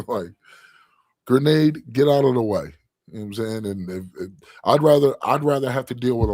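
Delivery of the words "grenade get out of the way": sudden loud, high warning call; grenade warning yell. Retold or imitated. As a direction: yell it like a live grenade landed.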